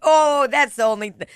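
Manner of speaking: mock Rose. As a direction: whine about the wet corset like a prissy heroine. Voicing Rose on the door.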